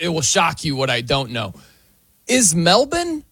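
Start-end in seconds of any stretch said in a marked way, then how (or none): 2.3-3.2 higher-pitched, incredulous questioning; baffled comic rant; mock bafflement. Real, not acted. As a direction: puzzle over it in comic disbelief.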